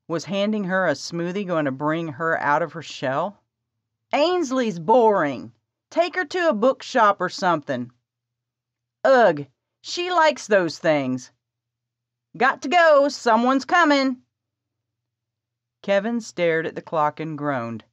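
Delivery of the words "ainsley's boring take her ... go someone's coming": put-on higher, louder, urgent girl; eager young woman. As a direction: rush the plan, bossy and eager. Presley voiced by narrator.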